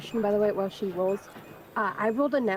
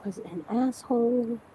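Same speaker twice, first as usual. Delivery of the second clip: deadpan note-taking. Acted. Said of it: "I just hear in the background note taking".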